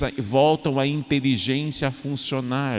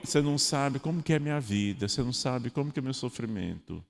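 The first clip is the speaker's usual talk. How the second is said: quieter, fast moaning; self-pitying complaint; 5 dB quieter, faster than usual. Pretend. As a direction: moan about your hard life. (queixa de autopiedade, baixinha)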